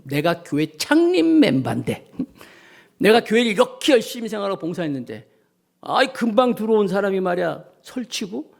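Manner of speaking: mock grumble of a founding member; lightly acted griping about a newcomer; complaining. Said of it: "이렇게 불평불만하는 거예요". (고참 교인의 불평 흉내)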